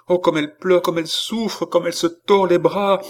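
high pained vision voice; distressed. Acted. Seer sees the woman suffer.

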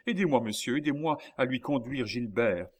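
high, loud insistence, easing slightly; exasperated exclamation. A narrator's reading. Old man demanding help carrying his child, exasperated. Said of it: "s'écria le vieillard exaspéré".

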